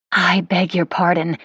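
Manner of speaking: slow, lightly voiced polite lady; Claire's polite apology. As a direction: apologise slowly, at an ordinary volume. Claire politely fails to place him.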